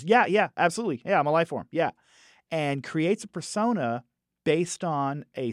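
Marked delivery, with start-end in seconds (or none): 0.0-1.9 quick, high, over-eager agreement; eager, fast yes. Retold or imitated. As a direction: rush to agree brightly. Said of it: "she says".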